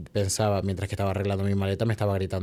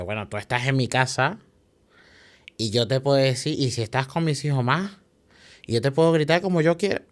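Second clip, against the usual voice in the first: mock yell building to a higher, louder peak; retold shouting; 4 semitones higher, 3 dB louder than usual. Landlady yelling at her tenant, imitated mock yell. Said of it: "Me empieza a gritar".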